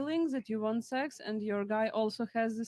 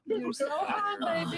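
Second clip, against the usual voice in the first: sexy voice; 7 semitones higher than usual. Pretend. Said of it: "We need an example".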